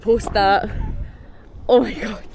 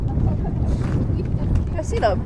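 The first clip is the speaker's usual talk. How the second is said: muffled behind a helmet visor; talking through a closed helmet; inside a helmet; 3 semitones higher, 5 dB quieter, much slower than usual. Real, not acted. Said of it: "Sorry, I've got my helmet on".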